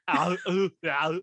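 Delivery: fast mock Arnold tumbling with little cries; Arnold falling downstairs. Friend hams up Arnold Schwarzenegger falling down the stairs. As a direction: rattle it off then yelp ow, ow. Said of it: "make a TikTok of you doing that".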